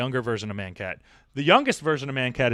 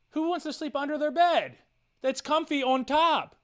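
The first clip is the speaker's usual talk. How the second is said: baffled talk to cat; 9 semitones higher than usual. Retold or imitated. You're like.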